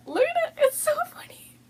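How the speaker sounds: very high, squeaky laughing whisper; laughing hard. Real, not acted. Vlogger showing the bag to viewers, helpless laughter. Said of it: "I'm dying".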